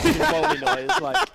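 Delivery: high and loud; excited. Real, not acted. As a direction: burst out eagerly. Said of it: "bang them on the throat".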